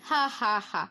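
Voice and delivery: acted, deliberate "ha ha ha"; hearty mock laugh. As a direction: laugh at the boy like a storybook villain. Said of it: "நன்றாக சிரிக்கிறீங்க". (வில்லனின் போலிச் சிரிப்பு)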